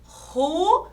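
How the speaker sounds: "Ruas" as a long rising RU, pause, AS; syllable by syllable. Shown as a demonstration. Teacher counting claps per syllable, syllable by syllable. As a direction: stretch RU, then place AS apart. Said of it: "Uma palma para cada sílaba".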